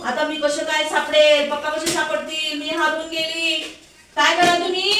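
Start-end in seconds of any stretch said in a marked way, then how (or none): 0.1-3.6 lost and scared. Pretend. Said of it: "कसं घाबरतात मग?".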